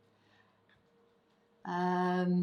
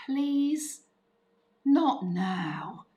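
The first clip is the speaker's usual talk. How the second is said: drawn-out higher please, then a firm, falling not now; plead, then shut it down; louder, spaced-out parental brush-off; put-off parent; 5 semitones higher, 5 dB louder, much slower than usual. Acted. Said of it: "You know, that's how".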